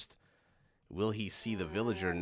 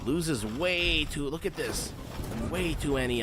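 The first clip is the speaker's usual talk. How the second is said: excited; 5 semitones higher, 4 dB louder than usual. Real, not acted. Caster hyped by big fight.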